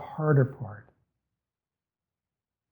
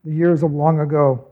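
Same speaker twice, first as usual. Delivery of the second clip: measured, solemn reading of the psalm; steady, reverent Bible reading; scripture reading. Acted. Reads the psalm aloud.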